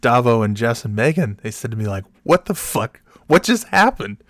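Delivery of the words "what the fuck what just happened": high-pitched imitated astonishment; shocked disbelief. Friends outside asking about the screaming, shocked. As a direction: retell the friends' shock, voice jumping up.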